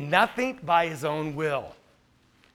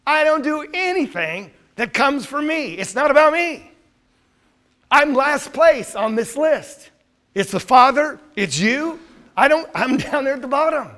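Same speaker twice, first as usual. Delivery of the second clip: fervent voicing of Jesus; 6 semitones higher, 4 dB louder than usual. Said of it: "Isn't that what he says?".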